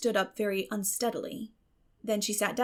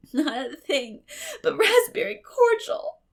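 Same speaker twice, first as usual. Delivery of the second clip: sobbed; 11 semitones higher, 8 dB louder than usual. A narrator's reading. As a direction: sob out your innocence. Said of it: "sobbed Anne".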